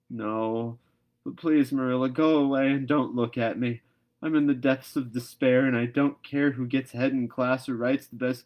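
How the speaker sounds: a hammed-up wail of despair; despairing plea. A narrator's reading. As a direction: beg her to go away, heartbroken. Anne in despair, begging.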